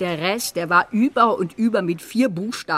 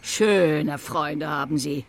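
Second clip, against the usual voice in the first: scornful anger. Acted. Mother reviles writer's friend.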